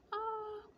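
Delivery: high-pitched mock scream, not loud; retold child's scream. Older child when sibling wants to play, mock scream. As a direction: imitate a child's shriek, held back in volume.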